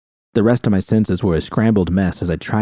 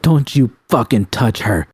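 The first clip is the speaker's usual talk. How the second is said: mild acted scream; 4 semitones higher than usual. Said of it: "I screamed".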